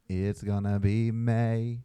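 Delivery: slow sung "It's gonna be May" meme line; imitating a singer. Retold or imitated. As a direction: drawl it slowly like the meme. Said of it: "he does his best impression of the singer".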